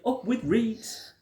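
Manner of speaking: hooted high and slowly drawn out; sing-song duckbill call. A narrator's reading. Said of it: "They hooted".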